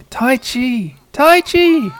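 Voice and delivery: high squeaky call to wake someone; little high-pitched creature cry; cute creature calling. Acted. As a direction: pipe the name out in a tiny critter voice. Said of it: "Something's going".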